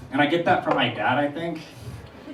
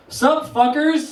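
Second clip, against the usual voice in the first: dad's greeting; 10 semitones higher, 4 dB louder, much slower than usual. Retold or imitated. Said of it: "My dad walks out and just be like".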